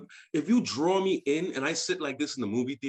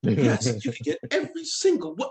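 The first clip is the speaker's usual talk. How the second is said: commercial saleswoman; 4 dB louder than usual. Retold or imitated. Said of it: "like she was selling lotion commercial".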